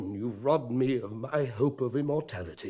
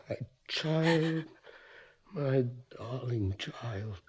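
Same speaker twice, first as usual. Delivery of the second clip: slow, soft endearment; tender murmur; 6 dB quieter, slower than usual. Acted. Father comforts his daughter, slow and soft. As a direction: hold her close with the words.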